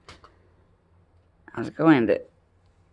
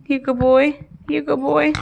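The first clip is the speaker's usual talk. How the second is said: higher sing-song praise; talking to a dog; 6 semitones higher than usual. Real, not acted. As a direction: praise the pup in a coo.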